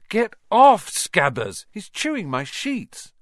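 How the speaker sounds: a sudden loud, high yelp of annoyance; annoyed yell. Acted. Ron scolding his rat in bed, loud annoyed yelp.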